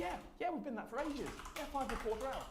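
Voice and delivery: high-pitched, lightly acted insistence; matter-of-fact caller. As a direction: breezily confirm it, pitched well up. Acted Nepali caller confirming odd offset.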